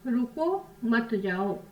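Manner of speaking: रुको held long, then a break before मत जाओ; pause after रुको. Shown as a demonstration. Teacher showing pupils a comma after रुको, pause after रुको. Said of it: "विराम देके बात की".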